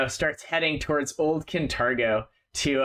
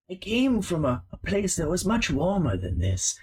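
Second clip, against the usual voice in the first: put-on old rat storyteller; 6 semitones higher than usual. GM voicing the old rat telling Sage his past, solemn. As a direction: tell it like an ancient sailor rat.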